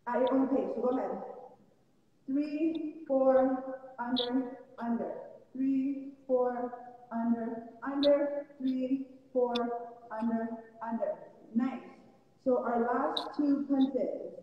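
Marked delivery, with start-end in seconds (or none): 2.3-11.1 boxing coach calling combos. Shown as a demonstration. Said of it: "So let's try three, four, under, under, three times".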